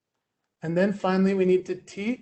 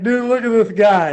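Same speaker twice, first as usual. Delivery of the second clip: mock kid call-out; 8 dB louder than usual. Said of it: "He's like".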